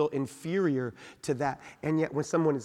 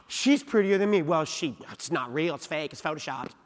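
catty, dismissive and fading; shrill catty stepsister. Pretend. Voicing jealous person.

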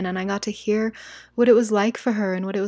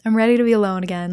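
ready again; 2 semitones higher, 5 dB louder, faster than usual. Retold or imitated. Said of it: "I was like".

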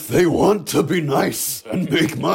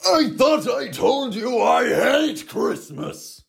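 high angry yell; angry shout; 5 semitones higher than usual. Acted. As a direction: snap at them in anger. Angry outburst at kids.

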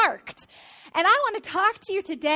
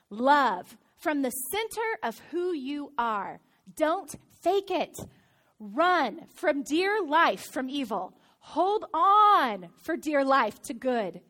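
scripture reading. Acted. Reads Romans twelve aloud.

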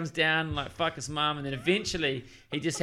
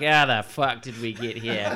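put-on lower, slow, laughing Indian accent; 5 semitones lower, slower than usual. Friends baffled at their drifting accents, mock Indian accent. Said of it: "finish off the same sentence in an Indian accent".

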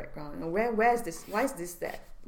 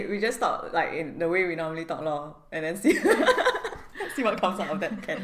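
Singlish; 11 dB louder than usual. Shown as a demonstration. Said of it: "That's Singlish".

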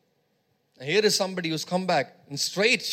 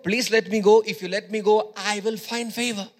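Ruth, bold and louder, sure of favor; confident pleading; 2 semitones higher, 4 dB louder than usual. Retold or imitated. Ruth telling her mother-in-law, bold and louder. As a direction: ask boldly like it's already granted. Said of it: "She was basically telling her mother-in-law".

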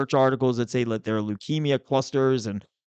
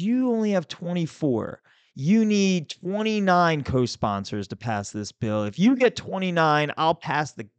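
raised, slow, scolding committee chair; half-hearted mock yell at a senator, higher pitched; retold yelling; 5 semitones higher, slower than usual. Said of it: "she started yelling".

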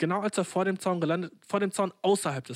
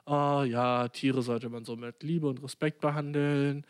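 preachy society voice; 2 semitones lower, slower than usual. Acted. Storyteller voicing society lecturing him on animals, mildly preachy. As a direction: recite the rule in mock-pious slowness. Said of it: "Society und so sagt mir so".

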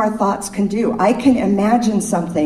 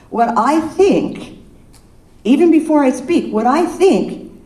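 slow emphasis; 5 semitones higher than usual. Real, not acted.

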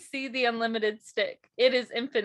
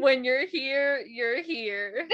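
wet voice; 2 semitones higher, slower than usual. Acted. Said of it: "wet voice".

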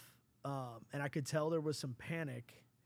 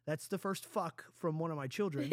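laughing. Real, not acted. Dad laughing at daughter's swear.

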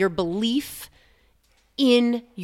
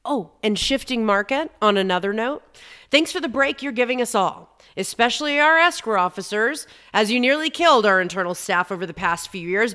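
letter to the shifting market. Acted. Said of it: "here's the letter for the shifting market".

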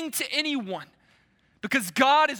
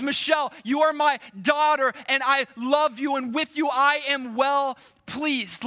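rising proclamation; 2 semitones higher than usual. Acted. Preacher voices God to Michelle.

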